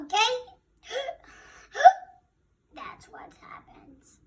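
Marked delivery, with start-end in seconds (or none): 2.7-4.2 breathy words after a hiccup. Real, not acted. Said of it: "I little bit ate too fast today".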